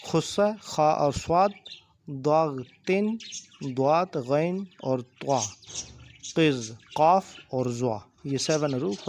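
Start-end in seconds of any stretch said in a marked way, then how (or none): 0.1-8.0 "خص، ضاد، تن، قز" slowly, with full heavy consonants; measured list, "ضاد" and "قاف" given a thick, heavy sound; bold heavy letters. Shown as a demonstration. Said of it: "حروف مستعلیہ میں سے bold letter".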